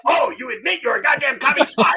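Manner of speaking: loud, high accusing yell; mock triumphant sergeant shout. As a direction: pounce on the recruit's confession. Acted sergeant pounces on answer.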